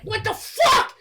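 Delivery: hammed-up disbelief; mock outraged yell. Voicing Stripe looking at his gremlins, outraged mock yell.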